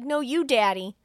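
put-on child voice. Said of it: "he's like".

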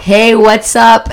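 fake American cool. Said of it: "J'étais en mode".

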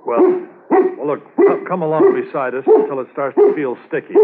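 high, loud shout over the distance; calling out. Acted. Handler shouting to partner in the car, high loud call. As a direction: shout across to the car while running.

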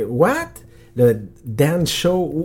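mock-puzzled lady repeating the words; confused gate lady. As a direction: echo the words back, baffled. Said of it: "la madame était que".

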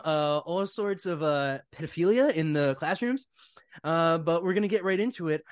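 lightly imitated morning show host opening; measured broadcast intro with lingering ums; Harrison Smith. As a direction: stretch out the words like a radio host. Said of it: "You wanna hear Harrison?".

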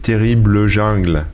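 « Terrible Jungle » dit à la française, jungle en « jein-gle » nasal; « Terrible Jungle » prononcé comme un mot français, lentement. Shown as a demonstration. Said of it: "je vais le prononcer à la française". (titre « Terrible Jungle » lu à la française, posément)

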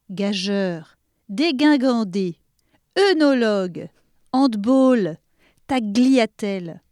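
carrousel with an S sound, abasourdir with a hard S, gageur like "jeur", handball said the English way; deliberately wrong pronunciations of the word list; mispronounced words. Shown as a demonstration. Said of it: "ces mots étaient tous mal prononcés". (mots volontairement mal prononcés)

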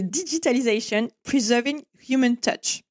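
English with a French accent. Real, not acted. Speaker gives a client's English positioning line, in a French accent. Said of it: "Avec mon magnifique accent".

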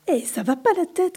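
high indignant shout. A narrator's reading. Brady shouting at the bouncing coatis, indignant yell. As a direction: yell it at the animals on his hammock. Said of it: "crie Brady".

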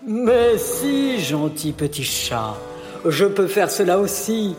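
softened, flattered. Acted. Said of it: "que ces douces paroles avaient rendu tout miel".

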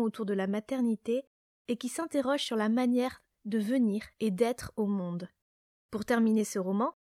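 measured podcast presenter read; scripted guest introduction. Real, not acted.

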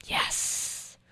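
breathy whispered aside; whispering. Real, not acted. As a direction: whisper it just to the listener. Playful aside after the answer.

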